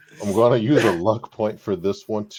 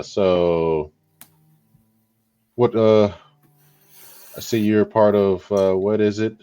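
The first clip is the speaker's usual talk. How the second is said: cute flirty; 3 dB louder than usual. Acted. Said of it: "As he's trying to be a cutie with it".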